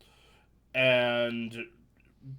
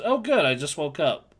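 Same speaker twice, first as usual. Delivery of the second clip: Gur voice; 4 semitones higher, 6 dB louder than usual. Retold or imitated. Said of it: "my terrible Gur impression".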